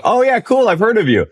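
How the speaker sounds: high, airy put-on voice; breezy rival DJ. Rival DJ greeting Moshe, breezy high-pitched mimicry. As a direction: imitate the rival's easy reply, pitched well up. Plays the rival DJ's reply.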